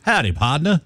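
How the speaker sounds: the host's John Wayne pardner again; cowboy drawl. Retold or imitated. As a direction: drop the T, partner becomes pardner. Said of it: "He says".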